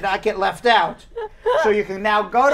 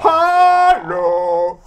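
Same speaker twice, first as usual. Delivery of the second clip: deep voice hello; 8 semitones higher, 8 dB louder than usual. Shown as a demonstration. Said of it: "That's as better as I can do".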